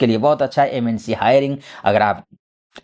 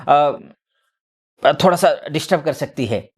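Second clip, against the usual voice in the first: usual speaking voice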